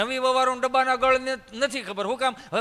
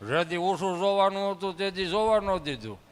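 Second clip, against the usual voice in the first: muffled grumble; 3 semitones lower than usual. Retold or imitated. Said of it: "ફાળિયામાં જ અવાજ કાઢ્યો".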